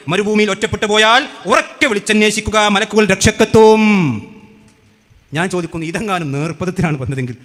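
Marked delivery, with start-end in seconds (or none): 0.1-3.8 slow, drawn-out recital of a text; declaimed reading. Retold or imitated. Debater reading out the rival's article, slow declaiming. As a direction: read it out grandly, stretching the final words.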